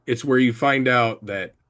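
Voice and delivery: talking while chewing gum; words around a wad of gum. Real, not acted. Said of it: "I cannot talk and chew bubblegum".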